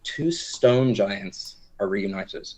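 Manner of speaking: slow, dramatic storytelling voice; GM scene narration. Acted. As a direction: set the scene like an epic tale. Game master narrates scene.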